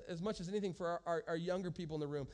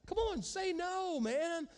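urging exhortation; 9 semitones higher, slower than usual. Real, not acted. Pastor urging congregation.

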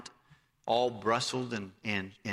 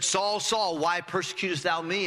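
raised, higher call of the Lord's voice; 5 semitones higher than usual. Acted. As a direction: call his name out from heaven. Jesus calling out to Saul.

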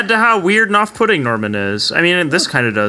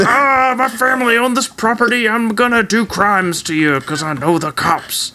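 angry local tough guy; 4 semitones higher than usual. Retold or imitated. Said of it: "Shows up to be like".

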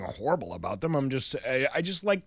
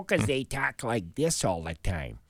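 slow, lower, softer Chicago vowels; Chicago accent; 5 semitones lower, 5 dB quieter, slower than usual. Shown as a demonstration. Demonstrating how accents change out west, slow Chicago accent. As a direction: show off Chicago speech, low and slow. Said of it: "before it heads out to Chicago".

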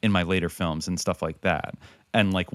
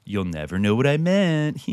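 mock cryptic artist; 5 semitones higher, 3 dB louder than usual. Mocking a cryptic director.

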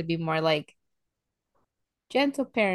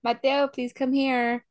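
sweet call; 4 semitones higher than usual. Retold or imitated. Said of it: "we're having a good time".

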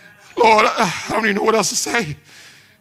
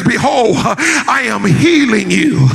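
solemn preaching. Real, not acted. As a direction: deliver God's promise in measured, emphatic phrases. Declares God's promise in sermon.

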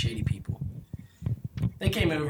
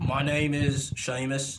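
slow Irish brogue that slips toward Scottish; put-on Irish accent; much slower than usual. Joke guest introducing himself to the podcast, mock Irish. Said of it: "That's a Scottish accent".

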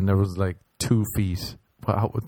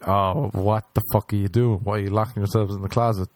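teacher voice. Retold or imitated. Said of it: "she was like".

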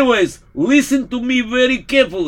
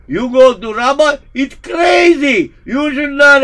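crazed raving; 4 dB louder than usual. Acted. Raving priest, crying out.

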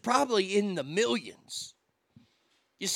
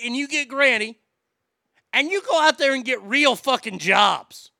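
high, loud furious rant; shrill anger; 4 semitones higher, 5 dB louder than usual. Real, not acted. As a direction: yell it at the prince. Ranting at Prince William.

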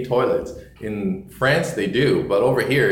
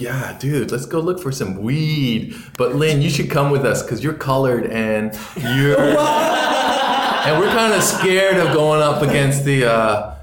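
hammed-up stoner buddy voice; high, drawn-out dude voice; imitating friend; 4 semitones higher than usual. Friend Andrew voiced in story.

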